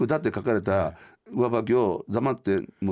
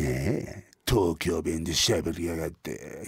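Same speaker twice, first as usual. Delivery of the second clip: sneering bully; 7 semitones lower, slower than usual. Retold or imitated. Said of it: "言うて".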